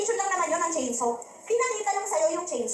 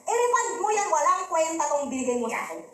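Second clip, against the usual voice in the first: acted angry customer. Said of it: "doon sa tindahan at galit siya".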